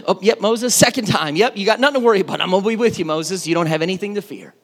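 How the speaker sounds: lightly voiced laid-back God; casual God voice. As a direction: brush it off like God saying sure, sure. God voiced offhand again.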